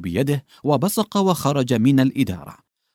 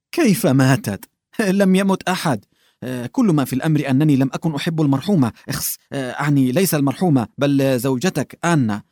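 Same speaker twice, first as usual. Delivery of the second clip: put-on a fussy old man backpedalling in a rush; nervous old clerk caught out; flustered old man; 3 semitones higher than usual. Flustered old man covering a slip.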